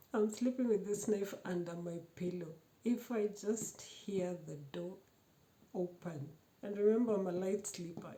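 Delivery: retold bold threat, pushed out loud and firm. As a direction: lay down the threat boldly, daring him to test her. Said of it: "I was very bold".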